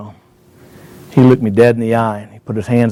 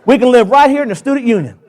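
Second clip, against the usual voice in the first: excited pleading; 14 semitones higher than usual. Retold or imitated. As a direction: beg the son to let him stay, half joking. Dad pleading to stay on campus.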